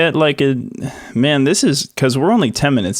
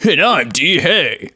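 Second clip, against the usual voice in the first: slow, higher put-on rapper voice; cartoon rapper intro; 6 semitones higher, much slower than usual. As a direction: drawl it like a cartoon MC. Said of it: "And you're like".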